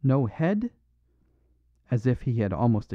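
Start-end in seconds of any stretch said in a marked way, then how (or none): 0.0-0.7 musing repeat. A narrator's reading. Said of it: "he repeated".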